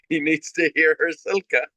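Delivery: normal talking voice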